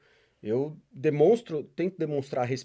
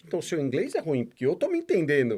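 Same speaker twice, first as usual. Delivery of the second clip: teasing. Retold or imitated. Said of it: "eu até sacaneio os caras".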